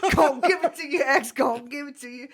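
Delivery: half-rap the catchphrase; a hint of a rapper doing his hook; a rapper's line. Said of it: "No, D M X".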